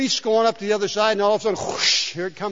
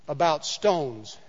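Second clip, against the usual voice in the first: drawn out; 3 semitones lower, much slower than usual. Real, not acted. Teasing slowed emphasis.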